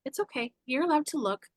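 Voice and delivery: soft, slightly lifted encouragement; inner reassurance. Retold or imitated. Her gut says she may date, softly reassuring. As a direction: gently give permission, lightly voiced. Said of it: "everything in me was like".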